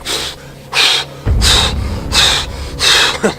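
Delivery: heavy, voiceless huffing breaths; imitated moose panting. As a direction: puff like a winded moose. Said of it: "and he's like".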